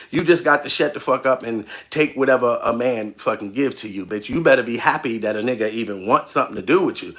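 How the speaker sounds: mock deep advice-guru lecture, blunt and dismissive; imitating Kevin Samuels. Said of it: "I saw you telling a female right in her face".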